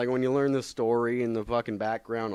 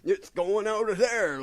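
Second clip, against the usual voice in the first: high, slow, dismissive mock voice; mock careless shrug; 12 semitones higher, 4 dB louder, slower than usual. Mocking a careless collector, high and slow. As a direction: toss it off like you don't care about the book. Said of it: "just be like".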